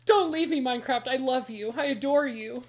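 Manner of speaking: cling to the game like a partner who might leave; pleading lover. Retold or imitated. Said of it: "It's just like".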